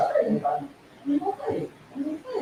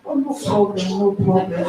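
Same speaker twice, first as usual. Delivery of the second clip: lower, imitated reassurance; voice come down; 4 semitones lower, 4 dB louder than usual. Husband suddenly calm on the phone, voice come down. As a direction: drop the pitch to wave it away. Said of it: "his voice just came down".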